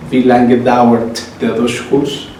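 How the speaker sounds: "wie lange" slowly, each word spaced; slow model phrase. Shown as a demonstration. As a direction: spell it out slowly for learners. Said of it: "teacher models German phrases".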